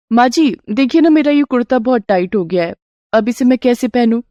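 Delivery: put-on girlish daughter-in-law with a small problem; pleading daughter-in-law. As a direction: appeal to her, voice lifted. Daughter-in-law asks for help.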